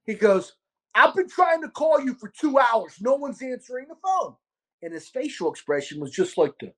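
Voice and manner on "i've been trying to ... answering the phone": pissed off. Retold or imitated. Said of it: "kinda pissed off".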